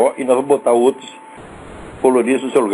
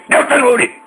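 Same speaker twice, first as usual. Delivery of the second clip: pretend yell; 7 semitones higher than usual. Host imagines storming the office, pretend yell of the name. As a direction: bark the name to scare him. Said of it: "Se eu chegar lá e gritar com esses caras".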